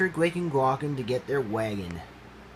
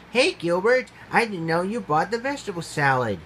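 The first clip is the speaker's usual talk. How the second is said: excited; 5 semitones higher than usual. Acted. Gwen greets excitedly.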